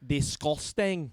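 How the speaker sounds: slow, drawn-out Scottish accent. Shown as a demonstration. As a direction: quote a video in mock Scottish. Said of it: "For me, it's like".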